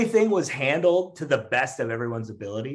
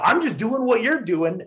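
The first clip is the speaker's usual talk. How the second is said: mock heckler yell; 12 semitones higher than usual. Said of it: "he just keeps yelling".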